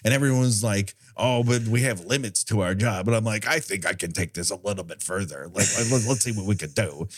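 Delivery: lightly voiced old demon; a hint of a seasoned old guy. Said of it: "I'm that demon".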